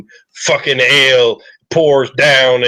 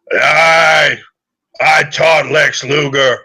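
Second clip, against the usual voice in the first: a hint of a gravelly tough old trainer, slow; lightly voiced hard man, measured and slow. Trainer speaks to Valorian, lightly gravelly and slow. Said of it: "he goes in a gravelly voice".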